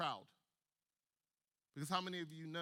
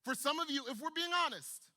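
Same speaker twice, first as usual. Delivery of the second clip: preaching build; 4 semitones higher, 3 dB louder than usual. Real, not acted. Preacher building to altar appeal.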